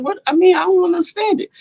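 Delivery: high-pitched, quick puzzlement; retold bafflement. Retelling his baffled reaction to the box.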